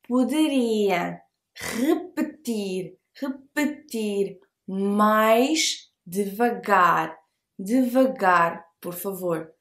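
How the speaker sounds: repetir mais devagar stretched out very slowly; teacher drills repetir mais devagar very slowly; very slow model phrase. Shown as a demonstration. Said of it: "It's not devagar".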